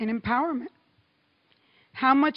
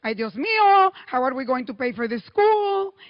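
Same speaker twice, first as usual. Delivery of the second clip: worried mother; 7 dB louder than usual. Retold or imitated. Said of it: "my mother would say".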